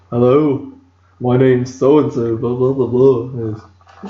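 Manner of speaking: lightly put-on British voice; rough British impression, slowing into blahs; British accent. Host auditioning as the room's British voice, mock British accent. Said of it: "need a British voice in this room".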